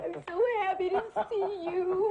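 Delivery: tearful joy at a reunion; happy crying. Acted. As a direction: cry and laugh with happiness. Bride sobbing with joy at reunion.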